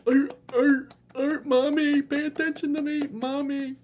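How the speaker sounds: high barking seal cry for mommy; mock seal baby. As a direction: bark like a needy little seal pup. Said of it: "I know I'm exaggerating".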